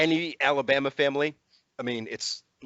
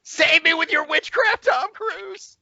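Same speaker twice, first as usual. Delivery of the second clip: high, loud mock plea; shrill cry for rescue; dramatic plea; 6 dB louder, slower than usual. Mock plea to Tom Cruise.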